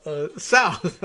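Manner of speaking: hammed-up Southern politician; stalling Southern bluster, amused; Senator Claghorn. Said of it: "I like that they just say".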